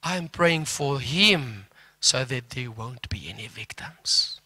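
whisper. Retold or imitated. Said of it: "Ek sê vir hom".

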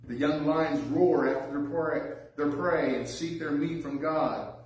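measured, solemn Bible reading; scripture reading. Acted. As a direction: read the psalm with reverence. Reading psalm aloud in sermon.

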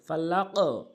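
ফালাক with a rounded echo on the final q; upward qalqala. Shown as a demonstration. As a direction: bounce the q of ফালাক toward o. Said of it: "এর উপরের দিকে".

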